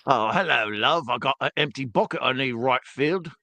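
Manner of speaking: put-on old man Cockney. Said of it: "See, I got two accents".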